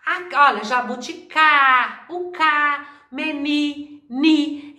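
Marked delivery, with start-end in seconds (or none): 0.6-2.1 JABUTICÁ cut after a loud, long CÁ; JABUTICÁ leaning hard on the final CÁ; stressed syllable isolated. Shown as a demonstration. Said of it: "o cá do jabuticaba". 3.1-4.0 MENI cut off after the stressed NI; MENI, ending on the strong syllable NI; stressed syllable isolated. Shown as a demonstration. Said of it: "o ni do menino".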